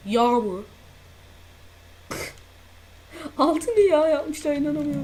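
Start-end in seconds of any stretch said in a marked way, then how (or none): 2.1-5.0 laughing disbelief. Real, not acted.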